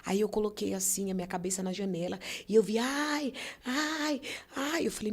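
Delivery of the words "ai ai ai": imitated groaning. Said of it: "eu ouvi um gemido".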